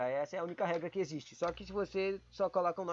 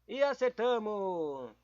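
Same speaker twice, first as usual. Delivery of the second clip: pleased; 4 semitones higher, 5 dB louder, much slower than usual. Real, not acted. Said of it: "Vamos ver se a gente acertou".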